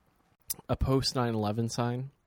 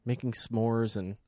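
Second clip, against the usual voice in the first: mock travel ad read. Addresses listener in mock ad voice.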